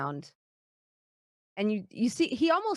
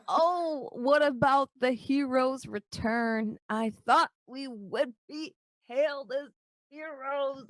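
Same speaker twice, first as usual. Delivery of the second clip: whiny dwarf voice; 4 semitones higher, slower than usual. Acted.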